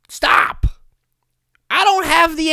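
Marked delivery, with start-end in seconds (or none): 0.1-0.6 breathy whispered stop. Acted. Podcaster warns info-seekers, whispered. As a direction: whisper it like a warning.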